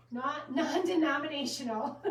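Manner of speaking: real laugh breaking into the words. Real, not acted. Host describing a devotional book, laughing unexpectedly. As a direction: let a giggle slip out mid-phrase. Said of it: "I don't know why I laughed".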